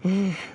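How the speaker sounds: short, falling sigh. Acted. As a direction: let out a brief sigh. Wordless sigh between lines.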